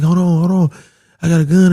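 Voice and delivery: half-acted excited friend; retold hype. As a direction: jump in with the plan. Friend offering gun, retold.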